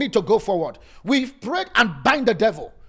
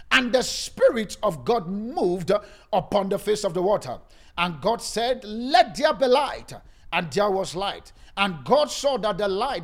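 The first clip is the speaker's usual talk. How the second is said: booming biblical narration; 2 semitones lower than usual. Acted. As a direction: read it like the Bible speaking. Reads Genesis in sermon.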